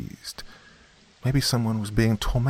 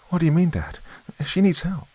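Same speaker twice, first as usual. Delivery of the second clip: upset protest; 12 semitones higher than usual. A narrator's reading. Girl protesting to father.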